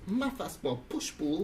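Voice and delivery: lent et mécanique, syllabe par syllabe; voix de robot. Shown as a demonstration. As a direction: dicte comme une machine. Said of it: "je vais pouvoir parler comme un robot". (voix de robot qui dicte)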